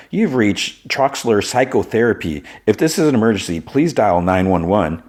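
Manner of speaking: a hint of answering-machine voice; voicemail greeting. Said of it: "a answering, you know, voicemail".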